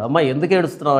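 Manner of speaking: a hushed, kind question to a grieving woman; gentle question. Acted. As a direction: comfort a weeping woman softly. Jesus gently asks weeping Mary.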